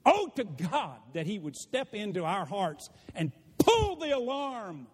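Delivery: hammed-up crying prayer; mock weeping over the fire alarm; mock tearful prayer. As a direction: fake a sob while you pray. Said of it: "it was so fun when I said".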